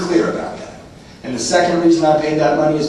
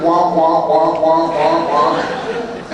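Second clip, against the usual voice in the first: sad trombone womp; much slower than usual. Retold or imitated. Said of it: "and I heard".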